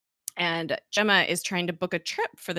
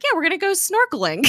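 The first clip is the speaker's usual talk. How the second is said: high, loud, fast retold punchline; mock excitement; 13 semitones higher, 7 dB louder, faster than usual. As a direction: chirp it eagerly, breaking into laughter. Retold gleeful punchline to romantic tease.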